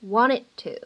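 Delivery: WANTED TO with the final D of "wanted" held back, unreleased; lost plosion. Shown as a demonstration. Teacher demonstrating lost plosion to learners, "wanted to" with unreleased D. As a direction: run "wanted to" together, dropping the D release. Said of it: "失去爆破的处理".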